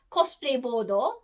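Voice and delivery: "bodo" said the Japanese way, two open syllables; English "board" turned into Japanese "bodo"; Japanese pronunciation. Shown as a demonstration. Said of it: "Japanese pronunciation".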